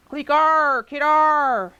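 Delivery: loud growling alien clicks and snarls; snarling alien. Acted. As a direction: snarl it out like a rodent creature. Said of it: "A snarl bubbles out of his throat".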